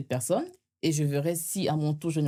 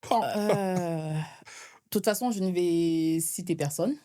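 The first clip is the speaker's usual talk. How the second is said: slow, jolted by bumps; on a bumpy road; much slower than usual. Real, not acted. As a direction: voice shaken by a bumpy ride. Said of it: "ça a secoué".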